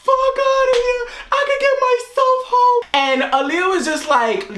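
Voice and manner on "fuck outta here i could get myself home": high-pitched mock outrage; retold anger. Retelling being mad at friend, mock anger. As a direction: act out your huffy outburst, pitched high. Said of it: "I was so mad".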